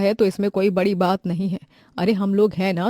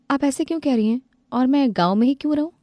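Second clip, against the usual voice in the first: higher, quick protesting reply; hurt young bride; 6 semitones higher, faster than usual. Acted. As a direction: push back, stung by the jab. Daughter-in-law hurt by taunt. (आहत बहू की ऊँची आवाज़)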